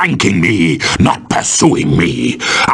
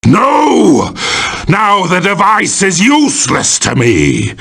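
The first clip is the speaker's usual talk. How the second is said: dismayed outburst; 5 semitones higher than usual. Acted. Villain's device is ruined.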